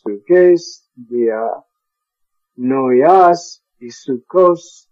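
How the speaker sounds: each Greek word picked out on its own; emphasised Greek endings; special emphasis. Shown as a demonstration. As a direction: hit every word and let it land. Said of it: "I put special emphasis on cardias".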